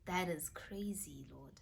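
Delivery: slow, awestruck whisper to God; awed whisper. Retold or imitated. Vlogger reliving her awe at Jesus's confirmation, soft whisper. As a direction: breathe the words in quiet amazement. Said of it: "I was just like".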